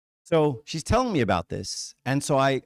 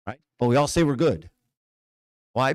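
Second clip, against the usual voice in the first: normal talking voice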